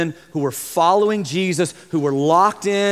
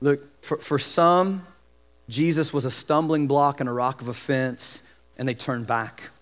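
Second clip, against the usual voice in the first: much softer, low sermon voice over music; a soft, intimate preacher's hush; hushed preaching; 10 semitones lower, 8 dB quieter than usual. Acted. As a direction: draw them in with a near-whisper. Soft closing exhortation.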